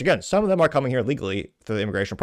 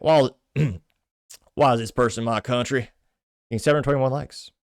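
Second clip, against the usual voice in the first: put-on Southern accent; 2 semitones higher than usual. Reading a comment aloud in a light Southern accent. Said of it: "did you hear it with a Southern accent".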